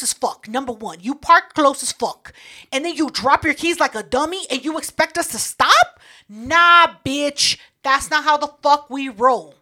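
mock outrage. Ranting at the driver.

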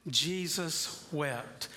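each word drawn out slowly and weightily; slow solemn reading. Shown as a demonstration. Pastor reading the shortest verse for the congregation to repeat, slow and solemn. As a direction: let the verse land, slow and grave. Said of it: "Say it again".

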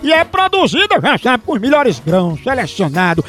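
upbeat radio ad pitch; radio ad read. Acted. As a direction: sell the coffee brightly. Reads live coffee ad.

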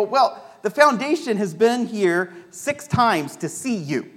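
excited nurse. Retold or imitated. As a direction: pile up the question in a rush. Nurse's long retold question.

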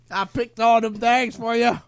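high, slow, eager servant put-on; mock servile voice. Mock servant reporting his chores to master, servile. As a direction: drag it out high like a hammed-up servant.

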